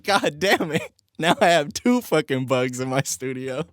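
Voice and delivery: high, frustrated curse at the bugs; exasperated outburst. Retold or imitated. Streamer retells cursing at the moth, exasperated. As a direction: blurt it out, fed up with a second bug. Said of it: "And I'm losing my fucking mind".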